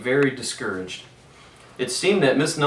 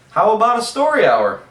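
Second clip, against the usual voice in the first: high, loud bright question; cheerful offer; 11 semitones higher, 9 dB louder than usual. A narrator's reading. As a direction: offer it like a treat. Miss Nelson sweetly offering.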